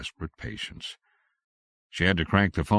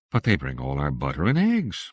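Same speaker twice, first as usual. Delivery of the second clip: louder, appalled protest; 5 dB louder than usual. Acted. Missus Allison appalled at losing her supplier, dismayed.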